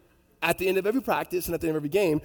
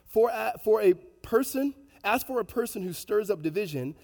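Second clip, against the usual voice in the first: scripture reading; 4 semitones higher than usual. Real, not acted. Reads the Bible verse aloud.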